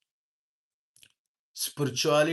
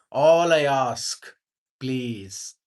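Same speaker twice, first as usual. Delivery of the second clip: gentle plea; 6 dB louder, much slower than usual. Retold or imitated. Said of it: "See how gently he spoke".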